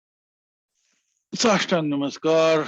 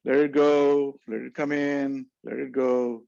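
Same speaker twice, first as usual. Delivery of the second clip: soothing breath cue; 2 semitones lower than usual. Shown as a demonstration. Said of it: "like the waves of the ocean".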